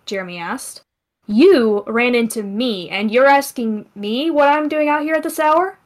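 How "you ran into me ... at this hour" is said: sarcastic. Acted. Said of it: "the cat said sarcastically".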